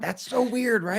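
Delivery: high-pitched, laughing through the words; laughing disbelief. Real, not acted. Podcaster reacting to the odd accent, laughing in disbelief.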